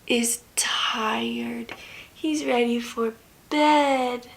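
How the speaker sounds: hushed bedtime whisper. Acted. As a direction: whisper it softly. Bedtime hush to toddler.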